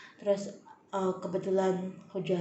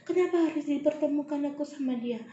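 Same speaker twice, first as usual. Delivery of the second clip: anguished plea; 5 semitones higher than usual. Retold or imitated.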